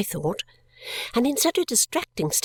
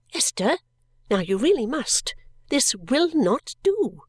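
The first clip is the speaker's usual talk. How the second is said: gentle self-scolding; 4 semitones higher than usual. Acted. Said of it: "persuaded myself to be quiet".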